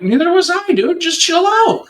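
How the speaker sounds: high-pitched, acted-out plea to relax; retold reassurance. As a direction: talk him down in a high voice. Officer calms a panicking man.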